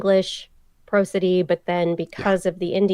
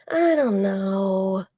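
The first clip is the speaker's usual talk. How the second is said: slow, drawn-out unsure mumble; conflicted; 2 semitones higher, much slower than usual. Retold or imitated. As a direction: stretch it out, torn between options.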